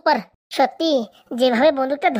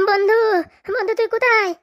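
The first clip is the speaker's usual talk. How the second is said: panicked calling out; 5 semitones higher than usual. Acted. Panicked search for missing friend.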